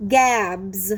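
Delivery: Gabs said slowly and clearly, ending on a buzzing z; teacher modelling a word. Shown as a demonstration. Teacher to class, modelling the word slowly and clearly. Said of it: "Let's continue with these words".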